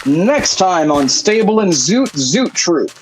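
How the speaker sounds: slow, dramatic next-time voice; TV teaser announcer. Acted. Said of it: "the teaser for next week's episode".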